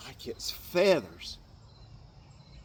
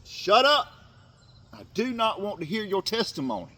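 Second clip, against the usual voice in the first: sharp shout of "shut up", much higher and louder, then firmer; Jesus cutting off a man's testimony, loud and stern; stern rebuke; 8 semitones higher, 7 dB louder than usual. Acted. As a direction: bark it like a rebuke that ends the talk.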